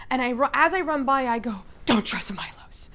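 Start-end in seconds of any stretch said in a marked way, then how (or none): 1.8-2.9 hoarse urgent warning. Acted. Warning shouted while running by.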